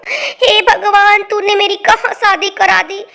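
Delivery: hammed-up weepy complaint; tearful lament. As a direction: lament it through acted tears. Wailing over her marriage.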